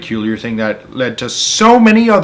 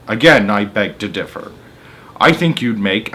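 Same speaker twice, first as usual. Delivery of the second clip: dry retort. Acted. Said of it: "Aunt Spiker said".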